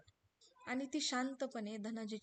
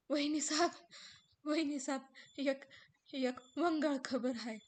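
hesitant grieving servant; 4 semitones higher, 5 dB louder than usual. Acted. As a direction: dread the words. Ramu बातमी सांगतो. (वंगाळ खबर सांगणारा घाबरलेला रामू)

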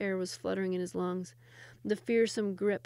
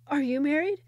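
louder, higher shout; 6 semitones higher, 7 dB louder than usual. Acted. Sultan shouts into the bathhouse, loud. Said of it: "Mahmud shouted".

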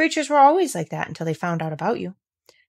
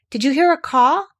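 eager question; 7 semitones higher, 6 dB louder than usual. Acted. Mary asks excitedly about crow.

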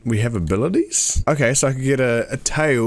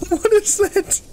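creeped out; 13 semitones higher, slower than usual. Real, not acted. Scared by eerie noise.

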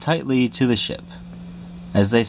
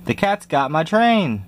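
crying out; 6 semitones higher than usual. Acted. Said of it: "cried the engineer".

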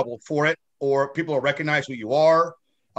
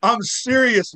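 higher-pitched earnest protest; imitated insistence; 5 semitones higher, much slower than usual. Retelling a fan pressing his odd request, insistent. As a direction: insist you mean it, as a retold quote.

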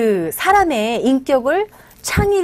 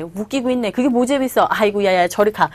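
dismissive. Retold or imitated. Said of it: "이런 식으로도 얘기하는 경우가".

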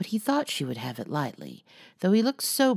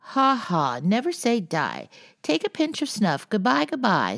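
higher, louder squawking bird; squalling parrot; 8 semitones higher, 5 dB louder than usual. A narrator's reading. Parrot squalling while clawing the old lady's cap. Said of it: "squalled Polly".

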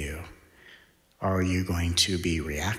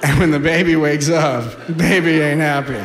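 louder and higher, laughing through it; laughing warning; 6 semitones higher, 3 dB louder than usual. Real, not acted. Joking about the angry baby, loud and laughing. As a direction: warn them while cracking up.

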